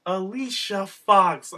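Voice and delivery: hammed-up impressed reaction; savoring the shade. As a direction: relish the name slowly, scandalized. Acts out reaction to shady comeback.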